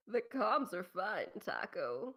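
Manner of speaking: slow, low George Takei voice, lightly done; a hint of George Takei, drawn out; low, unhurried Takei impression. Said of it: "I was trying to do George Takei".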